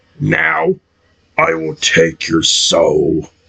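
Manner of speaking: slow, dark, threatening voice, sinking deep on soul. Reading a story, voicing the Forager taking a man's soul: deep voice on the word soul. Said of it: "why did his voice get so deep on the word soul".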